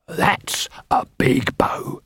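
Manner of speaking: slow, whispered reveal; menacing whisper. Acted. Nobby tells the armourer what is behind him, whispered threat. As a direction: whisper it slowly, word by word.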